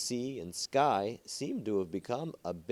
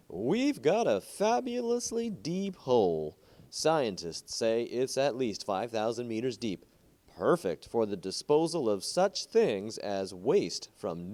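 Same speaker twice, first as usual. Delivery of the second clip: salesman pitch; 3 semitones higher, 3 dB louder than usual. Acted. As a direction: sell the fabulous hole like a pitchman, drawing it out. Concessionaire's loud sales campaign.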